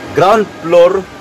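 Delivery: "ground floor, second floor" as "ground plor, sikan plor"; Philippine accent. Shown as a demonstration. Vlogger reviewing the two storeys, Philippine accent. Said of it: "kung mahal mo ang Philippine accent".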